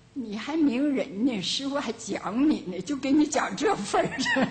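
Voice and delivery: unhurried, drawn-out sarcastic jab; slow and leisurely. Retold or imitated. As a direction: let the dig come out slowly, in no rush. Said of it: "人家会慢慢悠悠说一句". (慢慢悠悠地讽刺)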